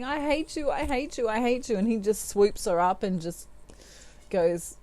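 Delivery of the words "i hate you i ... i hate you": movie heroine. Retold or imitated. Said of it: "she's slapping the guy and saying".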